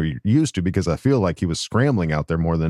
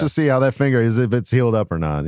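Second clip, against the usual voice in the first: high, fast mock coach voice; a hammed-up sly coach, falsetto; Jim Harbaugh voice; 6 semitones higher than usual. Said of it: "he might be like".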